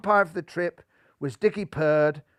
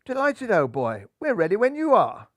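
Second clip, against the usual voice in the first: chortling toff; 5 semitones higher than usual. Acted. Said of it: "chortled Golden Hair".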